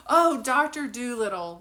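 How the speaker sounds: loud, playful outburst; delighted exclamation. Acted. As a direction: exclaim it as if thrilled. Acted delighted reaction to animals.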